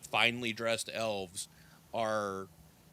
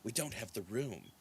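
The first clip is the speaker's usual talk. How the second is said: put-on old elf woman; 8 dB quieter than usual. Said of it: "the old woman says".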